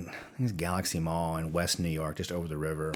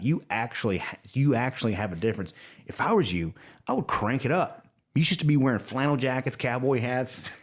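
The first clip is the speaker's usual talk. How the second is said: excited pep talk; 4 semitones higher than usual. Retold or imitated. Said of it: "He goes".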